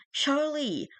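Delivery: high desperate scream of a name. A narrator's reading. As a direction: shriek the name in panic. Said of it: "I was screaming".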